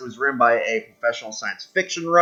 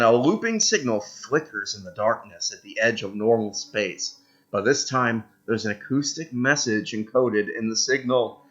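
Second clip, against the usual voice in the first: softer, measured event-text reading; story narration; 2 semitones lower, 5 dB quieter than usual. Acted. Player reading the Horizon Signal event aloud, hushed narration. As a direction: read it out like a quiet sci-fi tale.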